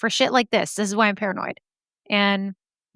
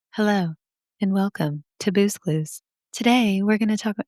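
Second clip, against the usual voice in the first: mock soothing host intro. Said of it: "What if I actually talked into the microphone like that".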